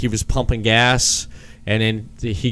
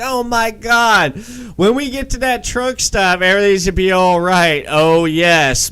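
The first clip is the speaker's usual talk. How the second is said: mocking Curtis; 6 semitones higher than usual. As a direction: mimic him in a much higher, sneering voice. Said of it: "mocking Curtis".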